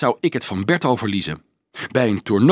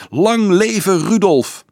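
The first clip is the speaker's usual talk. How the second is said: high, slow, ringing acclamation; frenzied cheer; 8 semitones higher, 4 dB louder, slower than usual. A narrator's reading. Children cheer their champion Dolf, frenzied. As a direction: draw it out like a cheering crowd. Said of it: "gilden ze uitzinnig".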